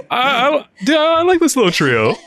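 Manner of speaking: high-pitched, laughing through the words; real laughing. Real, not acted. Viewer tickled by the little trio, laughing. Cracking up at the show's joke.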